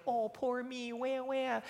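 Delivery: high, whimpering "poor me" wail; mock sobbing little girl, pitched high; mock whiny crying. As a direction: whine like a self-pitying child. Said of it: "she would not cry as in".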